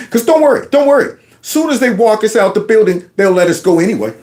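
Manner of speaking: ordinary talk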